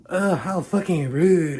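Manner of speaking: high, loud, slow indignant screech; mock scream. Young feminist shoving him away, high indignant screech. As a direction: screech it like an offended girl. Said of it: "one of them screams".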